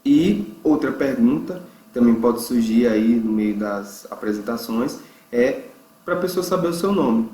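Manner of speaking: ordinary talk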